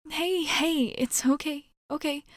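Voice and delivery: calm someone who is panicking; gentle, lifted "it's okay"; soothing reassurance. Acted.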